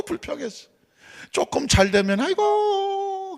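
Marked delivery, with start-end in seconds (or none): 2.2-3.4 long, drawn-out high aigo; mock sigh. Grumbling Israelites to God, slow high mock sigh.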